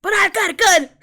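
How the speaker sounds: loud, high comic quote; Senor Pelo. Acted. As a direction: shout it like a cartoon outburst. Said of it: "sometimes I quote Senor Pelo".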